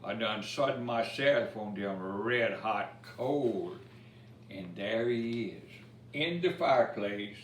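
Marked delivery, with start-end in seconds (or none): 0.0-3.8 lively storybook reading in Cajun dialect; rhythmic bedtime-story recital; reading a rhymed story. A narrator's reading. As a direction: read the verse to children with a bounce. Reads Cajun Christmas poem aloud.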